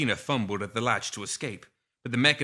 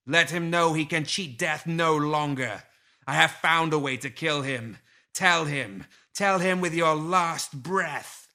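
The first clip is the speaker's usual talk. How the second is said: higher and louder booming command; booming thunder; 6 semitones higher, 4 dB louder than usual. A narrator's reading. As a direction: boom out the threat, slowing at the end. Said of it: "Lilith's voice came as booming thunder".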